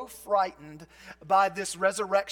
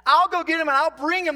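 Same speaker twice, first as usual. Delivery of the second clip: strong determined; 5 semitones higher, 6 dB louder than usual. Retold or imitated. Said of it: "She's strong".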